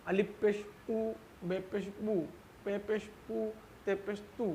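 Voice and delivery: उ, बू, पू, तू each said with the vowel sound modelled; teacher spelling out syllables with पेश; short vowel demo. Shown as a demonstration. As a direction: sound out उ, बू, पू, तू one by one. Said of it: "हम इसको खींचकर नहीं बोलते हैं".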